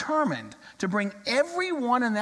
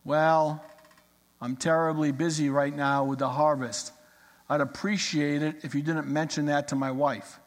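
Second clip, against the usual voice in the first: lightly voiced, no ups and downs, just busy; monotone voice; 4 semitones lower than usual. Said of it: "in kind of a monotone voice".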